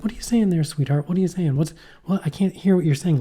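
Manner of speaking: gently puzzled, as if straining to hear; coaxing a child. Retold or imitated.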